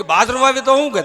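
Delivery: put-on eager boy's question. Boy asks father.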